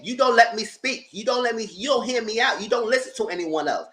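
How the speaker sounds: mildly exasperated impression of a boyfriend; mock blow-up. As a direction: imitate him fed up at not being heard. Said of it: "That's why he blew up on her".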